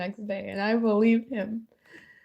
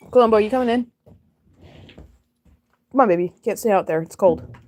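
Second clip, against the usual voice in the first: louder, coaxing call to the cat; calling a pet; 3 dB louder than usual. Real, not acted.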